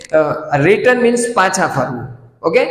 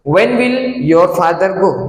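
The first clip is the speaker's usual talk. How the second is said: very slow, careful teacher read; slow model sentence; much slower than usual. Shown as a demonstration. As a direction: say it slowly for learners. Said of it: "તમારા પપ્પા ક્યારે જશે?".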